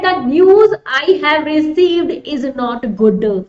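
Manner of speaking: slow, deliberate sentence reading; measured classroom reading. Acted. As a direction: spell out each word slowly for students. Reads exam sentence aloud.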